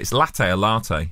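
latte said first as la-tay then as lar-tay; asking which latte is right; latte two ways. Shown as a demonstration. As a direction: try latte both ways, slowly. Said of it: "How do you say it?".

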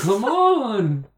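high, drawn-out ghost voice; ghostly voice. Pretend. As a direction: call out like a ghost. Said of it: "Are you sure you're Matt's ghost?".

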